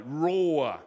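lion-like Roar; a hint of a roar. Shown as a demonstration. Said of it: "Like a lion over prey".

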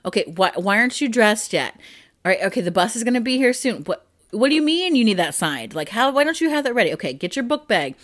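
rushed, nagging morning scramble; harried parent. Retold or imitated. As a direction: hurry the kids like you're late. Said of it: "It's like".

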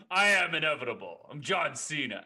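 loud, lightly attempted wrestler voice; badly faked wrestler's declaration; John Cena. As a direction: announce it loudly in a half-hearted celebrity impression. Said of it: "I can't do a John Cena impression".

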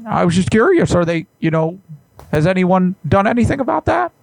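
a hint of a fussy psychologist caller; Jordan Peterson. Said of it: "I'm gonna try to get this Jordan Peterson".

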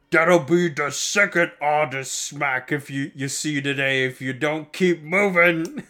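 slow, menacing warboss; lightly voiced warboss threatening the boys; orc warboss threat. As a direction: growl it as a threat. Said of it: "the war boss is like".

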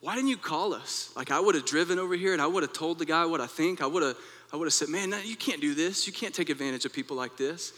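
retold fury at grandfather, pitched high; furious. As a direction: pour out the indignation, rushing. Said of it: "I began to get furious".

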